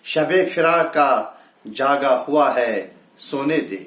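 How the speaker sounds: measured Urdu verse delivery; mushaira-style recital; poetry recitation. Acted. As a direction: recite it as a ghazal line. Recites the second ghazal.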